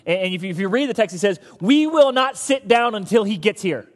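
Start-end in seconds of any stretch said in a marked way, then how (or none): 1.6-3.9 louder, slower, exasperated insistence; frustrated Samuel. Retold or imitated. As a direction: press each word, fed up with waiting. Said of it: "hear the frustration in his voice".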